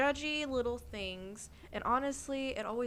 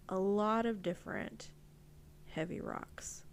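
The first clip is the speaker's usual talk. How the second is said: guided visualization; 4 dB quieter than usual. Acted.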